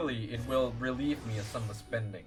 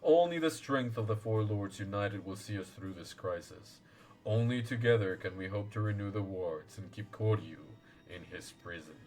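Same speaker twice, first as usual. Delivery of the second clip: lower, solemn elder voice; wise old lord; 4 semitones lower than usual. Acted. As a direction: speak as a grave ancient guardian. Voicing Genbu lord.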